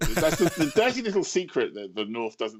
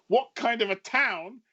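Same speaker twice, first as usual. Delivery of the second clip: incredulous thought; 9 semitones higher, slower than usual. Retold or imitated. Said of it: "and I thought".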